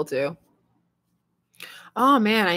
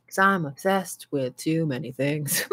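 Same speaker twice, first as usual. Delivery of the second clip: softer, slow, half-crying laugh; 5 semitones lower, 5 dB quieter than usual. Real, not acted. Admitting too many obsessions to viewers, slow laughing. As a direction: giggle through the confession, slow.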